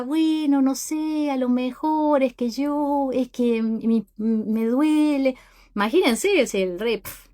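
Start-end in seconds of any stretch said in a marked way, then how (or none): 0.0-5.4 fumbling servant. Retold or imitated. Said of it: "la persona empieza".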